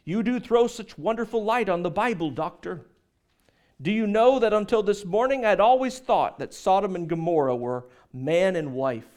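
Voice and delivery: older lady's put-on British accent. Older lady praising the preacher after his sermon, mock British accent. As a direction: imitate a British churchgoer, pitched slightly up. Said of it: "her British accent".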